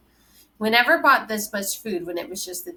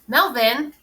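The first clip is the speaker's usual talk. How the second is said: sharp, higher, louder call of his name; shout; 6 semitones higher, 6 dB louder than usual. A narrator's reading. Mother cuts grandfather off with a loud shout. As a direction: cut him off with a loud shout. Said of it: "My mother's shout cuts him off".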